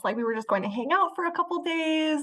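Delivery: imitating a flustered mother, pitch climbing midway; mildly freaking out. Daughter retells her mom's surprise at the labor, mildly freaking out. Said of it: "my mom was freaking out".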